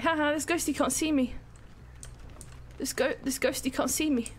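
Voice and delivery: mild mock taunt from the other players. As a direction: lightly imitate players mocking the ghost. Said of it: "They're mocking me".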